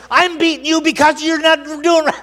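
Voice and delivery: high, loud scolding of an animal; acted angry yelling. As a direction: yell back as the furious rider. Acts Balaam yelling at donkey.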